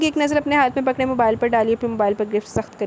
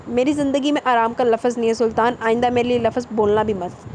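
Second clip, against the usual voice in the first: cold tone. Acted. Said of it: "اس کا لہجہ سرد ہو گیا".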